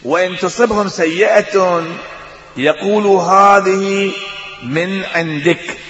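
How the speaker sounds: Quran recitation. Acted.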